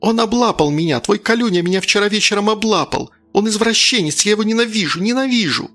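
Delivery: put-on high, rushed outburst of a hurt girl; teen girl blurting out the accusation to her mother; blurted in one breath. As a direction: spill it all out without stopping for air. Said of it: "выпалила на одном дыхании".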